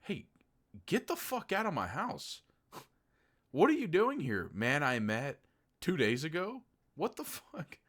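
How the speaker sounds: hammed-up angry homeowner; mock furious yell. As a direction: throw the intruder out, shouting. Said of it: "No, I'd be like".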